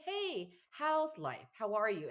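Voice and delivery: high playful imitation of small talk; cheery mock greeting. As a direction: chirp it up high like a sunny greeting. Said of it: "You don't say".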